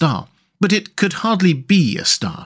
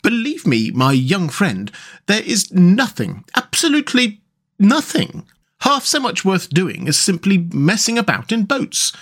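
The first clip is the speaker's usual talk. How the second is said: solemn; 7 semitones higher than usual. A narrator's reading. Rat advising his young friend Mole, solemn. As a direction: preach the joy of boats solemnly. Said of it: "said the water rat solemnly".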